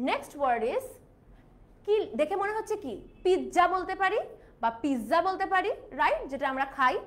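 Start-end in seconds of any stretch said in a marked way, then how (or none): 3.2-3.6 পিৎজা as pij-ja, with a j sound; Bengali mispronunciation. Shown as a demonstration. Teacher tries what Bengalis might say, পিৎজা as pij-ja. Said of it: "আমরা বাঙালিরা এই যে উচ্চারণ করছি". 4.8-5.2 পিৎজা as piz-za, with a buzzed z and no t; Bengali mispronunciation. Shown as a demonstration. Teacher tries another common version, পিৎজা as piz-za. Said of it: "আমরা বাঙালিরা এই যে উচ্চারণ করছি".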